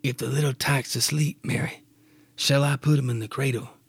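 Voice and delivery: father's gentle question in his own voice; right Clyde voice. Acted. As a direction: say it in Clyde's normal voice. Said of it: "wrong voice".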